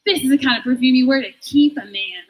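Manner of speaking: lightly voiced home-shopping presenter; a touch of saleswoman showmanship; shopping channel pitch. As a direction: present it like a product on QVC. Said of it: "auditioning to be on Q V C".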